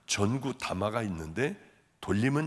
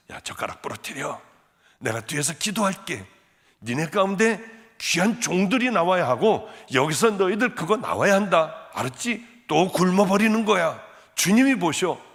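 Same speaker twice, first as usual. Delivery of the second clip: stern mother; 4 semitones higher, 5 dB louder than usual. Retold or imitated. Mother exhorting her children.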